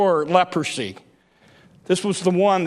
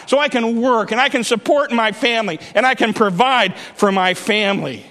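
preaching build; faster than usual. Acted. Preaching at full force.

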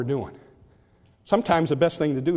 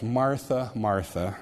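tender double address; 3 semitones lower, slower than usual. Shown as a demonstration. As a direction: say "Martha, Martha" gently, falling away on the second. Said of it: "conveys, uh, just a sense of tenderness".

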